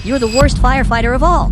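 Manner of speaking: loud, cutting insult from the boss; loud boss scolding his worst firefighter; harsh scolding. Acted. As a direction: bark it down at him like a mean boss.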